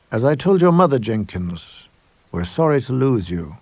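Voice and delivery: polite menace over tea; sinister headmaster. Acted. Mister Lovecraft to Missus Jenkins on leaving, politely sinister.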